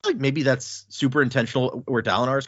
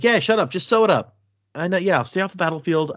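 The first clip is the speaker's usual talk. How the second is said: irritated brush-off; 7 semitones higher than usual. Acted. Dalinar brushes off the surgeon.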